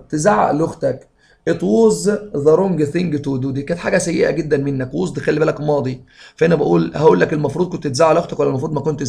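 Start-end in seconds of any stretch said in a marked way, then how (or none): 1.5-3.5 slow dictation. Shown as a demonstration. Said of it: "teacher reads exam sentence".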